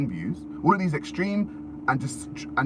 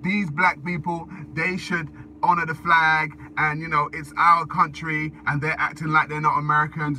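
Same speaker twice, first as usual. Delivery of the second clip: indignant patriot; 3 semitones higher than usual. Retold or imitated. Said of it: "And then it's like".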